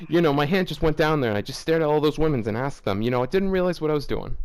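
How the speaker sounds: quick, mumbled mock impression of a sheepish comedian; tossed-off bad impression, rushed. Podcaster mocking a comedian's excuse, in a quick throwaway voice. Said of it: "I don't even know what this voice was".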